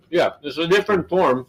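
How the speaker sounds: talking while chewing; words round a mouthful of chips; mouth full. Real, not acted. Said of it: "Sorry to talk with my mouth full".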